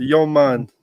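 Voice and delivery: very loud, high put-on Jamaican accent. Showing off a jamaican accent: put-on jamaican accent. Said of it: "I can do a Jamaican accent".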